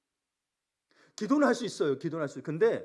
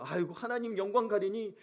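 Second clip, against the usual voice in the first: imitated prayer; 3 semitones higher than usual. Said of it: "어떤 분들이 그런 기도도 해요".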